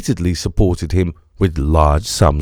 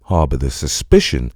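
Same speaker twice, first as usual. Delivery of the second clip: lower, dry German-free detective voice; a lower, probing Holmes; Holmes's voice; 7 semitones lower than usual. A narrator's reading. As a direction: Holmes asks Engels if Marx was murdered, lower and probing.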